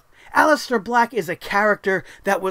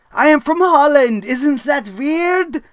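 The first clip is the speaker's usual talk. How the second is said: mocking Dutch accent; 4 semitones higher, 5 dB louder, slower than usual. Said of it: "in his weird Dutch accent".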